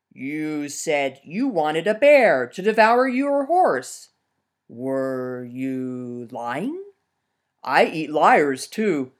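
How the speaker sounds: slow, looming bear threat; menacing bear. Acted. Bear threatening the lying peasant, slow and menacing. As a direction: draw out the threat like a predator.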